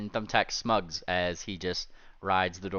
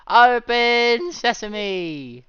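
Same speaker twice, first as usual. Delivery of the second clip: loud command; 12 dB louder, much slower than usual. Acted. Character commands door open.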